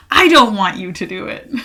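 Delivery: firmer insistent repeat. Shown as a demonstration.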